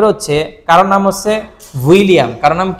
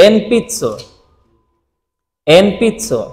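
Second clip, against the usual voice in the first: slow demo; slower than usual. Shown as a demonstration. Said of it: "এন পিৎসো মানে কি জানেন?".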